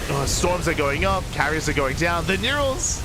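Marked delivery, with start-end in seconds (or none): 2.2-3.0 excited shout. Real, not acted. Caster hyped by neural into feedback, high excited call. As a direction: voice leaps high on the combo.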